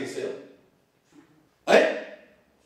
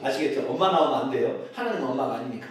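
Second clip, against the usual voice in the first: ordinary delivery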